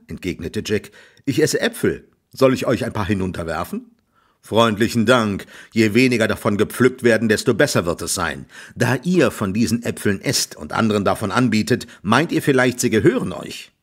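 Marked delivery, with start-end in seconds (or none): 1.2-3.9 lightly voiced cocky youth; cheeky young Jack. 4.4-13.7 louder, sarcastic farmer voice; grumbling landowner, louder; gruff farmer. Acted.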